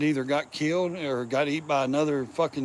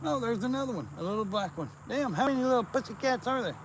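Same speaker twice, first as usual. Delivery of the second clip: high, soft surprised voice; surprised and delighted; 8 semitones higher, 6 dB quieter, faster than usual. Real, not acted. Man surprised to spot more kittens. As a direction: marvel at the kittens.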